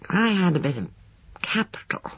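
mildly brooding, fading on the last word. A narrator's reading. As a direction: brood lightly, letting the end drop away. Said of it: "he brooded".

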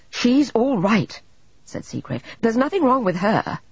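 slow hoarse, unnatural voice; hoarse, strained. A narrator's reading. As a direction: force the words out hoarsely. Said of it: "His voice sounded hoarse and unnatural".

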